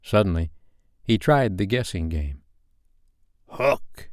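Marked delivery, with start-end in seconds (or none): 3.5-4.1 hushed, near-whispered call. A narrator's reading. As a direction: call softly to the hidden voice. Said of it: "he called".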